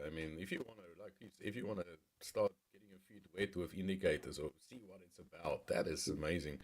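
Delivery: faint voice cutting out; bad connection. Real, not acted. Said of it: "Your voice broke up there".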